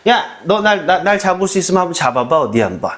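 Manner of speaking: mild mock taunt, a thief teasing the police; a hint of a thief taunting police who chase him. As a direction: lightly tease the cop to catch you. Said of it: "약 올리는 거야".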